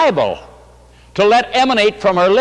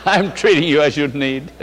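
laughing; 4 semitones lower than usual. Retold or imitated. Laughing through quote.

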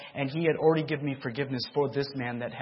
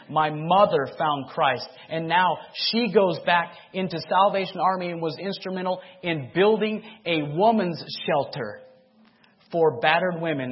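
preaching loudly; 4 semitones higher, 7 dB louder than usual. Real, not acted. Preaching at full force.

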